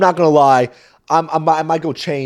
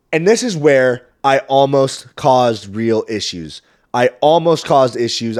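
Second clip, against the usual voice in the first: slow and louder, weighty; dramatic build-up; 6 dB louder, slower than usual. Real, not acted. Comedian slowing down to build suspense, weighty. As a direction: lean in and draw it out for suspense.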